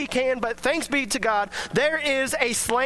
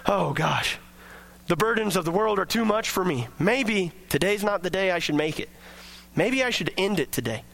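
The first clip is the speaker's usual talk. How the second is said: despairing voice; 4 semitones lower than usual. Retold or imitated. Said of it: "instead of".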